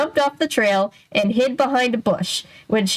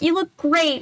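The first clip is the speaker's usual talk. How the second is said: high, breezy and dismissive; cheerful crew voice; 8 semitones higher than usual. Retold or imitated. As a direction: brush it off with a bright high voice. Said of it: "they're like".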